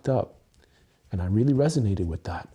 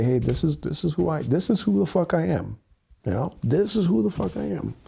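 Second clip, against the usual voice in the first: bold declaration; 5 semitones higher than usual. Real, not acted. Declaring who he is.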